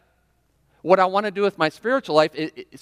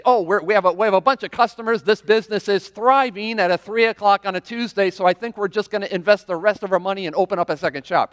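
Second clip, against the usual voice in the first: eager shop owner, higher and louder; excited; 4 semitones higher, 3 dB louder than usual. Pretend. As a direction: gush over the booming business. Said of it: "you would say".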